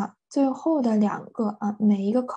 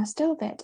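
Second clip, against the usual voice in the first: "stupid" stressed on its first syllable; stress before the shift; 6 semitones higher than usual. Shown as a demonstration. Teacher giving students the adjective first, "stupid" stressed on stu-. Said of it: "重音也相对往后移了".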